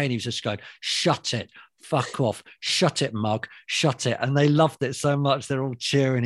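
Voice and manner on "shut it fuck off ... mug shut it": retold curt brush-off, each order punched out; brusque dismissal. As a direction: imitate a hard man waving off hecklers. Acting out Winston rebuffing fans.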